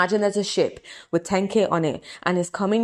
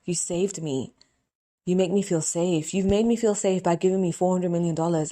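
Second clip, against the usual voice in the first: emotional prayer. Real, not acted. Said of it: "So I get really emotional".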